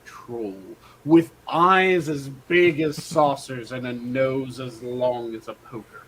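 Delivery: measured fairy-tale reading; storybook narration. A narrator's reading. Reading the Billy Goats Gruff story aloud, storybook narration. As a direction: read it like a story for children.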